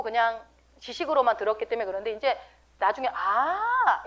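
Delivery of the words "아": drawn-out "ah" sliding upward; dawning realization. Acted. Preacher voicing a listener who finally understands, dawning realization. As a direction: let the penny drop on a long ah. Acts sudden realization of teaching.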